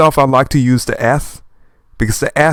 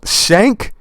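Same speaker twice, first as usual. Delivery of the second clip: higher, questioning comic-book sound effect; puzzled sound-effect reading; 7 semitones higher than usual. Acted. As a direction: read the odd effect as a question. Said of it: "What an interesting sound effect".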